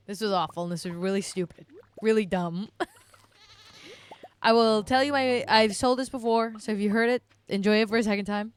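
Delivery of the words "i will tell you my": laughing. Real, not acted. Laughing restart of the story.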